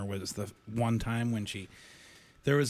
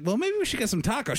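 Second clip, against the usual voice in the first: mock hopeful suggestion; 10 semitones higher, faster than usual.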